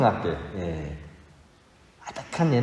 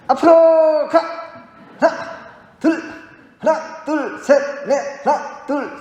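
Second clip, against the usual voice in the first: loud gung-ho soldier; 14 semitones higher, 5 dB louder, slower than usual. Retold or imitated. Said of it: "군인처럼 이제 훈련을 시키는 거죠".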